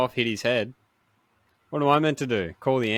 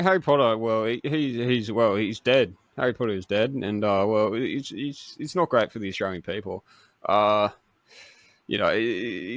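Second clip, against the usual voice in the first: Dutton voice. Acted. Asked to read Harry Potter in his Dutton voice, stammering. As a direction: hedge every word like a nervous politician. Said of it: "your Dutton voice".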